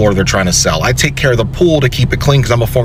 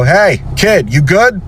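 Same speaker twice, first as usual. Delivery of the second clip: mock concern; 6 semitones higher, slower than usual. Mock-concerned call to fallen kid.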